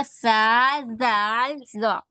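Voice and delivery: slow clear letter names; teacher modelling Arabic letters; letter names read out. Shown as a demonstration. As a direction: model each letter name for the class. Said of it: "ہم لوگوں نے کیا پڑھا تھا؟".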